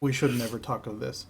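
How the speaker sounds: low muttered aside, under the breath; muttering. Acted. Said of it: "Ken mutters under his breath".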